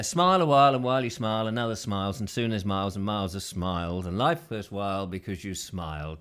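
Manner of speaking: verse recitation. Acted. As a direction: recite a little verse, easing down in pitch.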